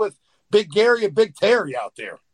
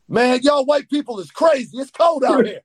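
retold shout; 6 semitones higher than usual. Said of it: "Godfather said".

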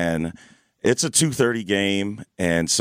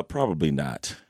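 firm no; 6 semitones lower, 5 dB quieter than usual. Real, not acted. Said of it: "You said that with, like, conviction".

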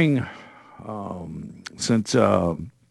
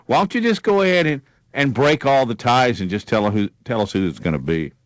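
sarcastic. Acted. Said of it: "I love your sarcasm".

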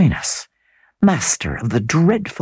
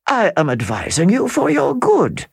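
smiling, lightly contemptuous calm; quiet contempt; 6 semitones higher than usual. Acted. Count answering Percival with smiling contempt. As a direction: condescend with a smile. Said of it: "with a smile of quiet contempt".

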